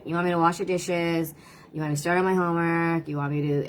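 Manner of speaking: a light imitation of a grumbling child repeating chores; mock the reluctant repeat-back, half-hearted; grudging kid tone. Mother imitating her kids grumbling back their chores, mild mock sulk. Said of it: "not a very positive tone of voice".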